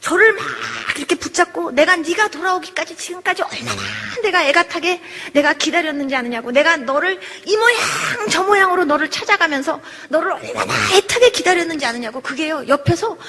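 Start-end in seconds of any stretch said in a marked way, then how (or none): 1.7-12.2 mother's urgent lament, retold; a touch of anguished reproach, key words stretched; lightly voiced anguished mother. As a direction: plead as a mother who waited long. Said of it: "우는 그런 어머니 장면처럼".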